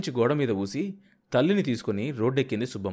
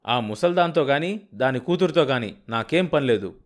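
angry retort; 3 semitones higher, 5 dB louder than usual. Acted. Husband snaps at in-laws.

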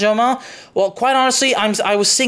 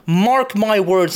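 slow emphatic vow; much slower than usual. Real, not acted. Solemn vow to viewers.

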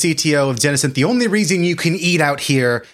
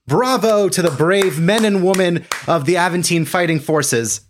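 bravado; 4 semitones higher than usual. Acted. Arno mocks cameras with bravado.

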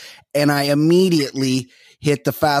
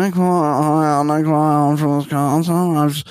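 Nick Viall impression. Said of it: "what Nick Vi".

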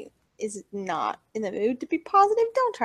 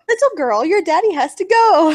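imitating him; 6 semitones higher, 10 dB louder than usual. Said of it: "He's like".

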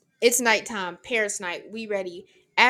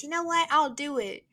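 bright-eyed eager; 5 semitones higher than usual. Retold or imitated. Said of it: "Like a bright-eyed, bushy-tailed grade seven".

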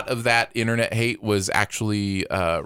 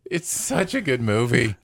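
high, drawn-out gush over a beloved movie; gushing praise; 11 semitones higher, slower than usual. Real, not acted. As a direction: stretch it out like you're swooning over a favourite film. Gushing about The Last Jedi.

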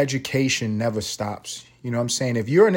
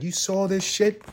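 slow mock Herm, higher; imitating Herm; 7 semitones higher, 3 dB quieter, slower than usual. Friend on the phone asking about the news, slow and high. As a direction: drawl it out like his buddy. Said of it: "He was like".

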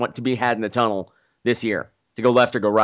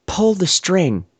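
deliberately slow, drawn-out order; slow command; 3 semitones higher, much slower than usual. Retold or imitated. She instructs the handcuffed man, slow command. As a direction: stretch each word into a slow instruction. Acted command before whispered repeat.

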